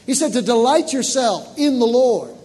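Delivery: loud, fervent sermon voice; full-force preaching. Real, not acted. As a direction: preach it out to the congregation.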